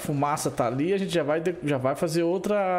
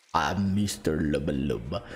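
much lower, slow wolf voice; deep wolf voice; 13 semitones lower, slower than usual. Pretend. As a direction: stretch it out like a big wolf. Turning into wolf again.

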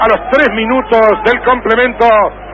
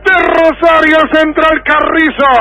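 goal shout; 6 semitones higher, slower than usual. Acted. Goal call continues.

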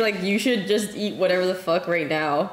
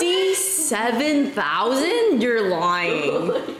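disbelief; 2 semitones higher, 3 dB louder, much slower than usual. Real, not acted. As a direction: repeat it stunned and slow. Echoes in disbelief.

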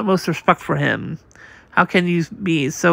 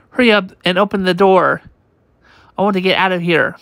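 urgent panic; 3 semitones higher than usual. Acted. The crew shout to each other to run for the door, urgent panic. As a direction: rush everyone out before it burns. Fleeing the burning room.

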